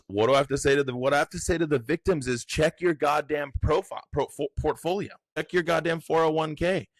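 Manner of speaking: high-pitched frantic mock rant; mocking Bondi voice. Official mocked while grilled at the hearing, high frantic rant. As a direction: squeal it like a rattled official brushing off questions. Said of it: "And her response is".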